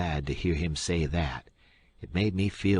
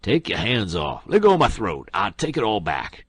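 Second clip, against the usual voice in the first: choked cry; 2 semitones higher, 7 dB louder than usual. A narrator's reading. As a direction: cry out to be let go, throat squeezed. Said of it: "The king sings out".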